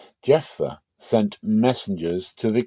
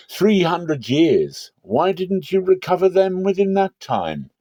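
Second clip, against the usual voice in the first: indignant challenge; 8 semitones higher than usual. Acted. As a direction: drag out the years, then fling the question up. Envoy's indignant rhetorical challenge.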